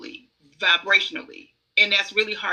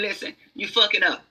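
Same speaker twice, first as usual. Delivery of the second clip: blunt version. Shown as a demonstration. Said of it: "they might say something".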